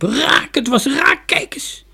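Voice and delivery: high, loud triumphant call; excited cry. A narrator's reading. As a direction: call out the good news excitedly. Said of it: "Maar Dunja riep".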